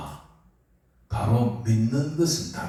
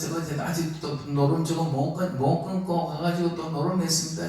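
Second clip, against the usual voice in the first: tattling devil; 4 semitones higher than usual. Acted. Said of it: "맨날 고자질 다 한다니까요".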